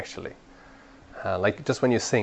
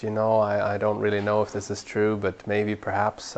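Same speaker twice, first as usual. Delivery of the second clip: a mild imitation of a hesitant, unsure speaker; 2 semitones lower, 5 dB quieter than usual. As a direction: sound a little timid, lightly acted. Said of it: "if we speak inconfidently".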